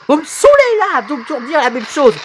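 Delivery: high-pitched fed-up complaint; exasperated outburst. Acted. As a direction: voice leaps up, fed up. Fed up with remarks on voice. (exaspération aiguë)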